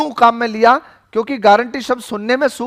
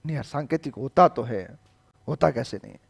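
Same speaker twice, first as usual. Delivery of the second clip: much lower, much softer mock student grumble; imitating a doubting student; 9 semitones lower, 12 dB quieter than usual. Teacher mimicking a student who still insists, low mumble. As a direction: mumble the student's stubborn objection under the breath.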